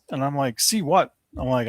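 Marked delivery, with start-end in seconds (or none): 0.6-1.1 retold puzzlement. Acts out own puzzled reply.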